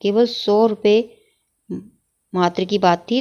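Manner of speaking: केवल सौ रुपये spelled out slowly with a pause before मात्र; wrong sentence read out slowly for correction; slow, deliberate wrong version. Shown as a demonstration. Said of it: "अशुद्ध वाक्य है".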